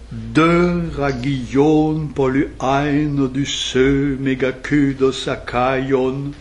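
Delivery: very slow chanted Greek hexameter; recited Greek. Shown as a demonstration. Teacher recites the Greek original to the class, slow and chanted. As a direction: chant "Polyhein, Odyssee, Megakudos" syllable by syllable. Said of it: "Ce sont les vers que je vous ai lus".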